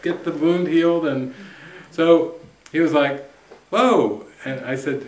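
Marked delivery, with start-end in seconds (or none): 0.0-1.0 excited urging. Retold or imitated. Urging client to move on. 3.7-4.2 amazed whoa. Retold or imitated. Client amazed by news.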